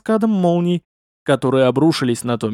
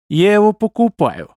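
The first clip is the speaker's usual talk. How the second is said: evil smirk; 5 semitones higher, 4 dB louder than usual. A narrator's reading. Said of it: "со злой усмешкой ответила она".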